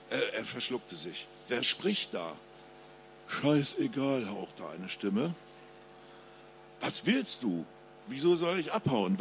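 ruhige Krimi-Lesestimme des Autors; Lesung. A narrator's reading. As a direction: spannend vorlesen, wie vor Publikum. Author reads his crime novel. (Autor liest seinen Krimi vor, ruhig und spannend)

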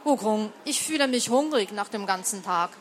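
ruhige Erzählstimme beim Vorlesen; Geschichte vorlesen. A narrator's reading. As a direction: trag es wie eine alte Legende vor. Liest aus Romanübersetzung vor. (vorlesende Erzählerin)

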